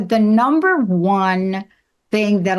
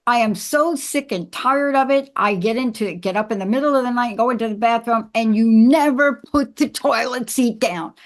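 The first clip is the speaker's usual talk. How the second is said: mock fed-up complaint, pitched up; 3 semitones higher than usual. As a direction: act out an exasperated partner's grievance. Acted complaint of fed-up partner.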